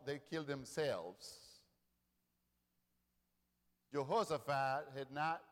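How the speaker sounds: normal talking voice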